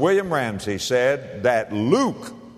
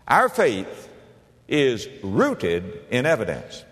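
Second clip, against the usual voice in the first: slow, deliberate restatement; emphatic repetition; slower than usual. Real, not acted. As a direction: drive the point home slowly, falling in pitch. Preacher repeats main point for emphasis.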